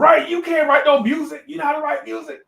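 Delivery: loud, high-pitched mock scoffing; derisive disbelief. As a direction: imitate musicians ridiculing a kid. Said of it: "And they laughing".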